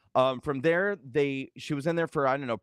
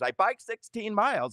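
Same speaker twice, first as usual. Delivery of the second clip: high, baffled repeating voice; bewildered mother; 9 semitones higher than usual. Retold or imitated. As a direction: play a mum dazed after a stroke. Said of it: "she told the nurses, the doctor".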